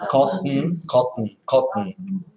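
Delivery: Cotton with the t swallowed into the n; Cotton, the middle t going straight into n. Shown as a demonstration. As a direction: Cotton with a glottal t. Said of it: "like when you're swallowing".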